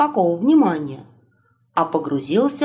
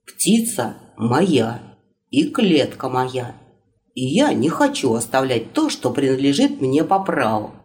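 put-on low young prince voice; 6 semitones lower than usual. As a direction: lower voice, digging in his heels. Ivan voiced, low and slow.

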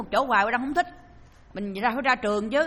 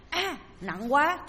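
straining groan; 4 semitones higher, much slower than usual. Acted. Ghost strains lifting heavy blanket.

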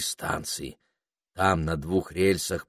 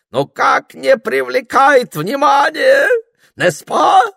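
put-on loud, high, theatrical French accent; французский акцент; 8 semitones higher, 9 dB louder, slower than usual. A narrator's reading. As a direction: preen in a French accent, soaring at the end. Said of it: "с сильным французским акцентом". (манерно, громко, с французским акцентом)

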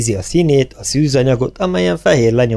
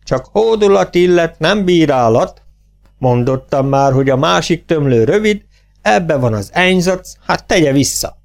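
raised, declaimed pronouncement from on high; voice of the Lord; 6 semitones higher than usual. A narrator's reading. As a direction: intone grandly, stretching phrase ends. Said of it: "az úr hangja". (az Úr hangján, fennkölt szavalással)

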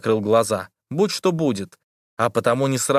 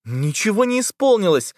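shouting; 9 semitones higher than usual. A narrator's reading. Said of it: "кричала в ответ Лиза".

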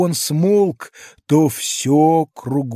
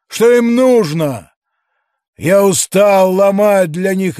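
louder, earnest questions; pleading giant; 4 semitones higher, 6 dB louder than usual. A narrator's reading. Giant explaining his loneliness to the policeman, louder. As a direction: ask like a lonely tired giant.

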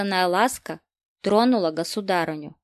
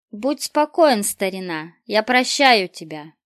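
loud; 6 dB louder than usual. Acted. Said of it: "она добавила громко".

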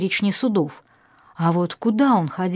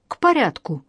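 barking; 5 semitones higher than usual. A narrator's reading. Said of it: "рявкнул майор".

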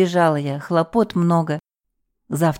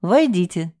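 plain reading voice

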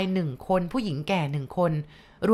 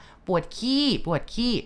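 slow, high, muffled cry through a mouthful; garbled mouthful cry; 5 semitones higher, slower than usual. Retold or imitated. Grandma crying out at the door, words muffled by betel nut. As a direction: call out past betel nut in the mouth, higher and dragged. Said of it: "ยายตะโกนเสียงหลงดังลั่น ทั้งที่เคี้ยวหมากไปด้วย".

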